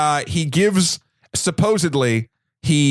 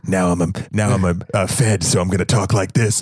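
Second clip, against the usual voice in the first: mock fed accent, pitched much lower; Hilary Swank's silly accent; 9 semitones lower than usual. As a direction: put on a silly, low federal agent accent. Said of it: "it was because of the silly accent".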